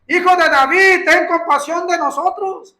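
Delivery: high, loud cry from far off; loud, high imploring call. Retold or imitated. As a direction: call across the distance for mercy. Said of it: "tienen que clamar a gran voz".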